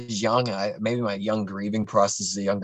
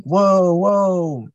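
much higher and louder alarmed whoa; shocked whoa; 9 semitones higher, 7 dB louder than usual. Retold or imitated. Friends shocked as mom hits him, startled whoa. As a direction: gasp out in alarm.

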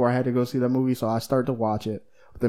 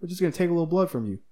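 quick casual doctor; 5 semitones higher, much faster than usual. Retold or imitated. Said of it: "and he's like".

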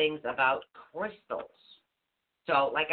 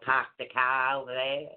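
lightly put-on Boston accent; a touch of Boston accent; 3 semitones lower than usual. Shown as a demonstration. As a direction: give a quick sample of Boston speech. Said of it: "like, from Boston".

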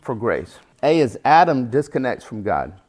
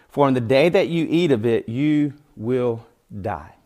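scripture reading. Acted. Preacher reading Paul's letter to the congregation, solemn. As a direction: read the verses with weight.

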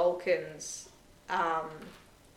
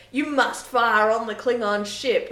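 urgent order; 4 semitones higher, 8 dB louder than usual. Retold or imitated. Michael ordering Giorgio to fire.

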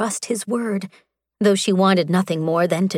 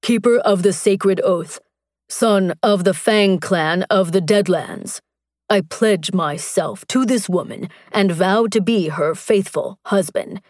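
lightly voiced warrior vow. Strax pledges himself to Mara, solemn warrior voice. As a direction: intone the vows like a hint of a proud warrior. Strax speaks his vows.

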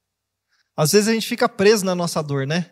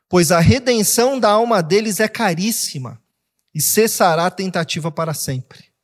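scripture reading; 2 semitones higher, slower than usual. Acted. Reads Psalm aloud.

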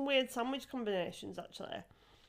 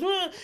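loud scornful ugh, higher; disgusted grunt; 8 semitones higher, 7 dB louder than usual. Retold or imitated. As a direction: grunt your contempt at him.

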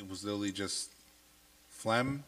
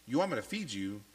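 put-on exasperated talking to baby; 6 semitones higher than usual. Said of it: "I say things like that".

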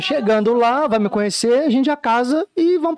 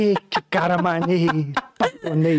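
lower, slow admiring aside; mock-impressed woman; 5 semitones lower than usual. Woman recalls falling for the catcaller, mock-impressed murmur. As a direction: say it slowly, as if won over by the catcall. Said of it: "Eu falei".

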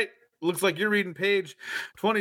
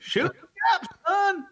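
hick dad voice. Retold or imitated. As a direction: call it out like a country dad. Hillbilly dad voice joke.

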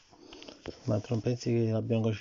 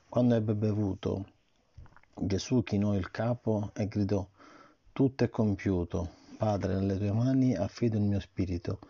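put-on reading to a child. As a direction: read the story gently to the child. Parent reads Bible story. (lettura a un bambino)

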